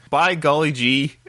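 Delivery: hammed-up fanboy gush; mock gushing fan. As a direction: gush like an overexcited kid.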